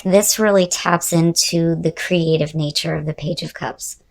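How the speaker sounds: hoarse voice running out; losing voice. Real, not acted. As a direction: voice giving out, fading to breath. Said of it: "I'm kinda losing my voice here".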